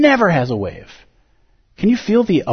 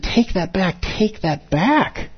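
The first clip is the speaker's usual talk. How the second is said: Zen teacher's voice. Retold or imitated. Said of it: "Zen is so good at saying".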